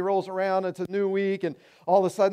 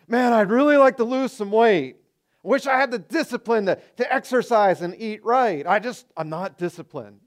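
whiny excuse-maker; 3 semitones higher, 4 dB louder than usual. Retold or imitated.

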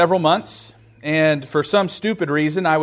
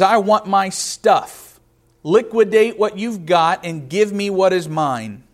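slow, entitled demand, a bit higher; demanding younger son; 3 semitones higher, slower than usual. Acted. Younger son demanding his inheritance from father, entitled. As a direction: lean on each word like a greedy son. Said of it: "This son says".

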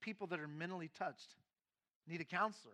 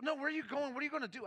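higher, urgent questioning of the husband; alarmed wife; 9 semitones higher, 5 dB louder, faster than usual. Retold or imitated. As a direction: demand where he is going.

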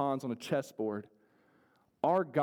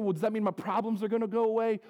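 doubtful listener; 7 semitones higher, 4 dB louder, faster than usual. Retold or imitated. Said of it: "you might be saying".

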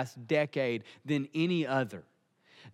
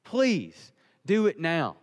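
acted plea, higher then slowing down; begging; 3 semitones higher than usual. Father begs Jesus to do something, pleading. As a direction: beg urgently, dragging out the please. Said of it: "he's begging Jesus to do something".

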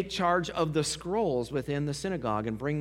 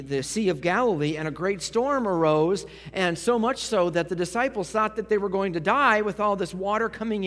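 raised, insistent pulpit voice; forceful preaching; 4 semitones higher, 5 dB louder than usual. Acted. Preacher listing the leaders' charges against Jesus, forceful preaching. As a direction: preach it louder and higher, building the case.

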